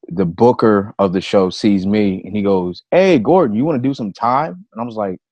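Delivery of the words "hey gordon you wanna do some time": higher, louder hail to someone spotted; calling out. Retold or imitated. Booker calls to comic at the show, calling out. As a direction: imitate a booker's bright hail, pitched up.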